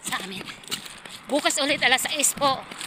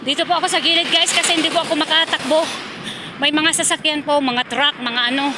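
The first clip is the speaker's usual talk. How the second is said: raised voice over passing trucks; loud over traffic; 3 semitones higher, 5 dB louder than usual. Real, not acted. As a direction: speak up over road noise. Talking beside traffic on roadside. (malakas na boses sa gitna ng trapiko)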